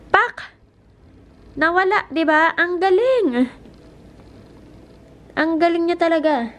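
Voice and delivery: excited. Real, not acted. Cleaning hack works, excited.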